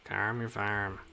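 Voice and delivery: a flippant brush-off; dismissive retort. Acted. Brushing off the impatient old man, cheeky. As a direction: toss it off cheekily. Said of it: "I do not appreciate your tone".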